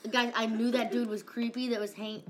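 put-on talking like a valley teen; slangy teen delivery, caught in the act; teenager voice. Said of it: "why am I talking like a teenager?".

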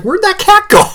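high-pitched, puzzled exclamation; retold bafflement. Owner after the cat disappeared, high retold bafflement. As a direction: re-enact searching for a vanished cat.

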